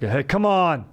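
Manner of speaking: mock dad yell; a light warning call to a kid; dad yell demo. Shown as a demonstration. Host showing his dad yell, a mild mock yell. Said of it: "What does that kinda sound like?".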